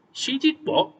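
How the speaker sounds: high, alarmed cry; shocked and frightened; called out with alarm. A narrator's reading. Snow White alarmed at the huntsman's news. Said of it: "called out with alarm".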